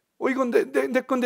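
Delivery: put-on timid, whining child voice.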